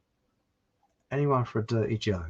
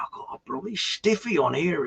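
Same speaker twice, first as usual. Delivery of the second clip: village simpleton; 5 semitones higher, 3 dB quieter than usual. Acted. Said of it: "bit of a simpleton".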